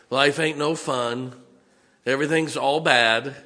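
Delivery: sulky whining moan; mock self-pity. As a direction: ham up the complainer. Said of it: "That's a sulking self-pity attitude".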